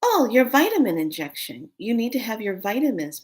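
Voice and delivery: lightly voiced high nurse; a hint of singsong nurse patter; dream nurse. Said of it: "She goes".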